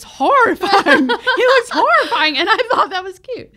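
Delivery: high, loud laughing delivery; real laughter. Real, not acted. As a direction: laugh through the words. Laughing at own taste.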